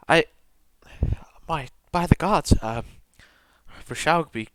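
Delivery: a hint of a shaken priestess, mostly quiet; grieving priestess. Priestess recalling the old tomb to Tor, quietly shaken. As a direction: speak softly, struggling for words.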